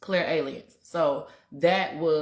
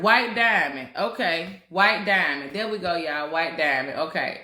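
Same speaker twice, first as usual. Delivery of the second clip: loud repeated calling out; 6 dB louder than usual. Real, not acted. Speaker calls out the perfume name loudly.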